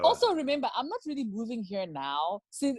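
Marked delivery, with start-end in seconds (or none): 0.7-2.4 a hint of American twang; slight American lilt creeping in. Real, not acted. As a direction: slip lightly into an American accent. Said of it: "that was all American".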